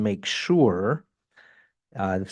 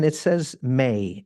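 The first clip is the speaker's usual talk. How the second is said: slow, pointed "may" at the end; stress on may; slower than usual. Real, not acted. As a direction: hit "may" slowly and firmly to make the point. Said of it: "I want to emphasize the word may".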